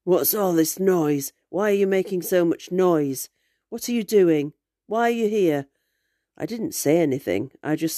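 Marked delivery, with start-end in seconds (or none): 0.0-5.7 slowed, rough-edged demand from a stranger; a hint of a rough stranger's voice. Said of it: "said in a rough voice".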